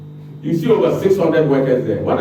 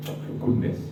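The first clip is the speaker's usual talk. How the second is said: soft, breathy, unvoiced disbelief; exasperated sigh-aside; 11 dB quieter than usual. Real, not acted. Exasperated aside after argument.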